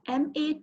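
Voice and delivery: 'ma' going down low, then up; dipping third tone. Shown as a demonstration. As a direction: dip 'ma' deep and lift it at the end. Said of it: "lower down your tone".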